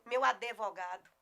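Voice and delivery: ADVOGADO with an extra E, "a-de-vo-GA-do"; uneducated pronunciation. Retold or imitated. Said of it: "não tem grande escolaridade".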